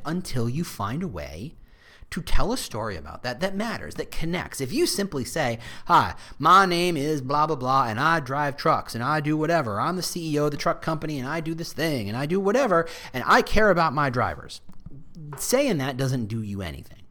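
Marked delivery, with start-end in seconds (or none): 5.8-14.6 put-on drawling Texas trucker accent. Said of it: "apologies for that accent".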